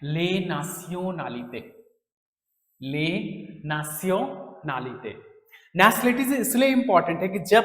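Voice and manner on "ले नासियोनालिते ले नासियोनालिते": slow, syllable by syllable: ले नासियोनालिते; careful slow demo. Shown as a demonstration. Teacher showing students the French word, slow and clear. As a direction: spell out ले नासियोनालिते slowly for the class. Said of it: "यहाँ पे एक चीज clear करनी है".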